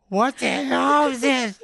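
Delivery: high, drawn-out retold disbelief; mock-baffled exclamation; incredulous outburst. Retold reaction to noisy back seat.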